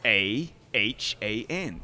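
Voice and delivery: spelling in a careful American accent; letters said the American way, one by one. Shown as a demonstration. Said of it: "actually use an American accent".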